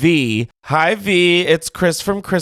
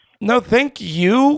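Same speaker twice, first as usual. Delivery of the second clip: high, slow thank you with rising tune. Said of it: "question mark".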